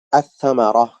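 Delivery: "আস-সামারাহ" with no l, first consonant of "সামারাহ" held; silent lam, doubled tha. Shown as a demonstration. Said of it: "আল উচ্চারণ না হয়ে সাটা".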